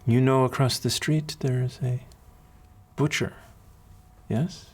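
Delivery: a hint of an accented matron; kindly accented mentor. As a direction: counsel a child with long, considered pauses. Voices the accented woman mentor.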